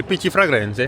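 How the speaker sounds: loud, playful Italian lilt; hammed-up Italian pronunciation; Italian accent. Vlogger announces the perfume fair, playful Italian accent. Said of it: "J'essaye de parler italien".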